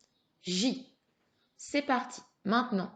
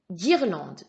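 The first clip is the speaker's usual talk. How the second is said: Guirlande said louder, set apart; emphatic dictation; 6 dB louder than usual. Shown as a demonstration. Teacher has pupil listen for syllable, Guirlande loud and distinct. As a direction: project Guirlande as a clear model word.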